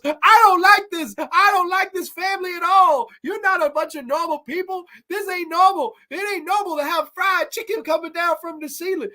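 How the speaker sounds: yelled high and loud, furious Southern politician; angry shout. Retold or imitated. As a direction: blow up at the family and storm out. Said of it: "throws his fucking napkin, and goes".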